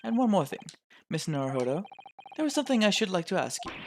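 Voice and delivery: measured, formal authority with a lifted pitch at first; stern formal official. Acted. Lord chief justice dismisses a lawyer, stern and formal. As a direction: pronounce it like a pompous court official.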